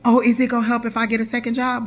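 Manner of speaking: mock client question. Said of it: "y'all are asking me ridiculous questions".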